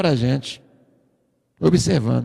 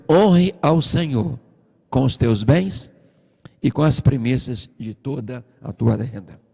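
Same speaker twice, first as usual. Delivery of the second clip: slow emphatic reading; 5 semitones lower, slower than usual. Shown as a demonstration. Preacher rereading the verse to the congregation, slow and weighty. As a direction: weigh each word of the verse.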